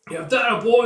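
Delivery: high, loud whoop of support; cheering. Acted. Crowd to the boy mid-duel, rowdy cheer. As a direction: cheer the fighter on.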